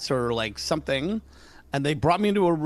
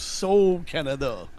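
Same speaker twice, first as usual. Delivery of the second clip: Duke Kaboom catchphrase; slower than usual. Retold or imitated. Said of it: "It was".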